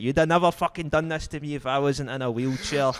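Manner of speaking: chuckling through the line; laughing. Real, not acted. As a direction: quote broken by laughter. Laughs quoting the woman.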